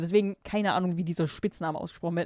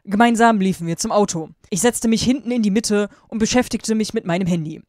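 louder, emphatic read-aloud delivery; story narration; 3 semitones higher, 7 dB louder than usual. A narrator's reading. Reading fan fiction aloud to viewers, emphatic narration. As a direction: read it out with loud, deliberate emphasis.

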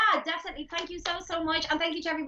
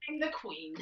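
mock Queen; 5 semitones lower, 8 dB quieter, slower than usual. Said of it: "if the Queen sounds like".

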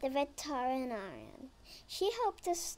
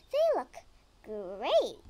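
excited; 7 dB louder than usual. Acted. Character exclaims over Henry.

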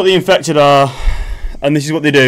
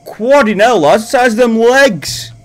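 louder, higher astonished outburst; shocked exclamation; 6 semitones higher, 5 dB louder than usual. Real, not acted. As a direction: gasp out loud at the giant legs. Shocked at huge monster.

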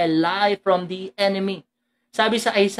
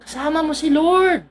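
reassuring; 6 semitones higher than usual. Shown as a demonstration. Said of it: "Sabi mo sa mga anak mo yan".

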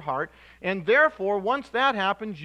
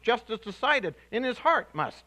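Yoda-style wording; 3 semitones higher than usual. Retold or imitated. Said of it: "something like Yoda would say".

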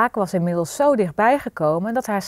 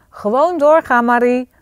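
raised, firm urging; mother's loud, higher-pitched command; calling out; 4 semitones higher, 5 dB louder than usual. A narrator's reading. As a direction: call to her to keep at it. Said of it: "riep haar moeder".

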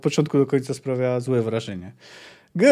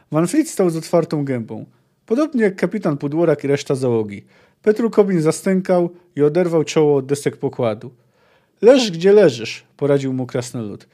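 lively read-aloud of a fantasy novel; story narration. Acted. Reading the chapter to viewers, as a story narrator. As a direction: tell the tale with character in the quotes.

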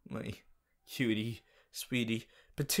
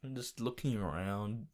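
whispered; 4 semitones lower, 8 dB quieter than usual. Real, not acted. Whispered while searching.

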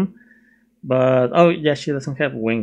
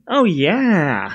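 put-on drawn-out Valley Boy accent; 4 semitones higher than usual. Friend agreeing to the movie plan, Valley Boy accent. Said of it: "and that's my Valley, Valley Boy accent".

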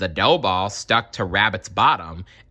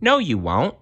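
kindly; 6 semitones higher than usual. Acted. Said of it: "said Bramwell kindly".

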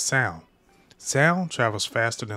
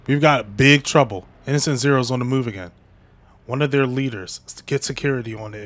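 urgent alarm; 6 dB louder than usual. Acted. Alarmed manga panel read aloud.

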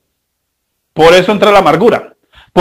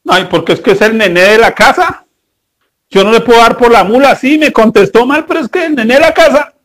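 mock whiny father. Mocking David's excuses for son.

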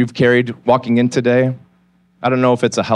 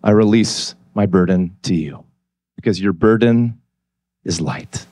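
surrendering prayer; 3 semitones lower than usual. Pretend. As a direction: let it go gently, almost a breath. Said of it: "just to say".

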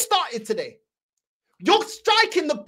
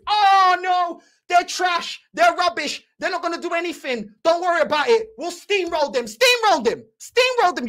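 mocking fans' bravado; 3 semitones higher than usual. Mocking confident fans' past predictions.

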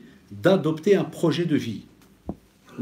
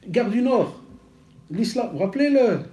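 high, louder retold question; eager reminder; 8 semitones higher, 3 dB louder than usual. The man reminding the preacher where they met, high and eager. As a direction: push it up as he jogs the memory.

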